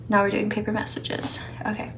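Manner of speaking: soft whisper to herself; hushed aside while setting up. Real, not acted. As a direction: whisper it under your breath.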